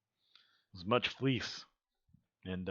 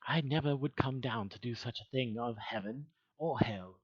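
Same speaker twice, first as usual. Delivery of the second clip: lightly imitated Good Omens angel; mildly affected, effeminate delivery. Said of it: "That's how he talks".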